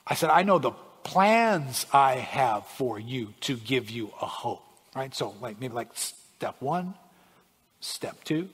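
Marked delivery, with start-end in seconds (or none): 0.3-4.6 slow repeat with PLANS stretched out; real slow. Acted. God repeating the plans to a listener who misheard, real slow. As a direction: say it slowly, drawing out "plans". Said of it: "can you say that again real slow".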